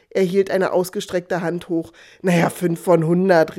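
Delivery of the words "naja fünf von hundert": ordinary delivery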